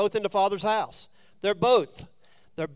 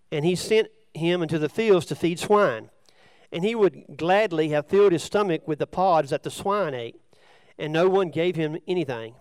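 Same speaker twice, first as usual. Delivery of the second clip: loud, measured Bible reading; scripture reading; 8 dB louder than usual. Acted. Preacher reads the prodigal son parable to listeners, loud scripture reading. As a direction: read the parable out to the room.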